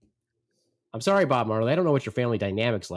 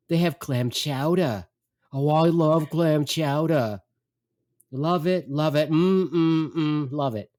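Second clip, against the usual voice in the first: slow, relishing mock mom voice; delighted mother; 4 semitones higher, 4 dB louder, slower than usual. Mother spotting the boat's snack bar, delighted. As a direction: imitate a mother savoring the very thought of food. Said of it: "She sees a snack bar on the boat".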